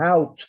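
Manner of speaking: out with a breathy aspiration; aspirated out. Shown as a demonstration. Professor demonstrating Old French out, aspirated. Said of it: "quizá con una aspiración".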